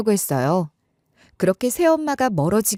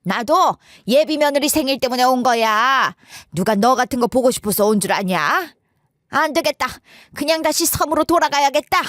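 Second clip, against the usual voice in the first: shrieked retort; 3 semitones higher than usual. Acted. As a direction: snap back in a huff, voice pitched up. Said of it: "똑같이 이렇게 소리를 빽 지르시더라고요".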